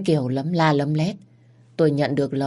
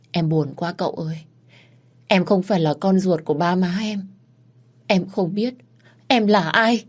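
sad, near tears; 4 semitones higher than usual. Acted. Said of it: "Tôi tủi thân và bật khóc".

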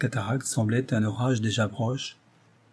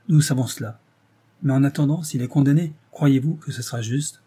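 irritable; 2 semitones higher, 3 dB louder than usual. Acted. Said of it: "fit Rose avec humeur".

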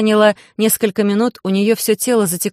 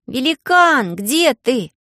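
calling out; 6 semitones higher, much slower than usual. A narrator's reading. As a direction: shout into the woods. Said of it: "позвала Алиса".

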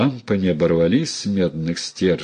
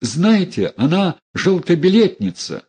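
put-on mild spiteful old lady; 10 semitones higher than usual. Old lady denounces Dunya.

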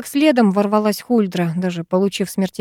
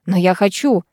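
ordinary delivery

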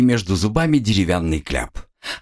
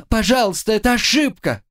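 high, desperate protest; high panicked plea; 12 semitones higher than usual. Acted. Student begging the counting soldier, high and panicked. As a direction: beg them to see the mistake.

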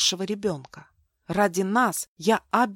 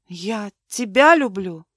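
ordinary delivery, nothing marked

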